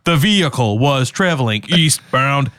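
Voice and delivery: stilted mock robot report; measured, mechanical over-enunciation. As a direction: recite it like a machine. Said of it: "he, like, roboted it".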